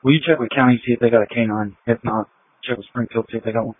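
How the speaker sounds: tinny radio transmission; police radio. Real, not acted. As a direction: talk through a squad car radio.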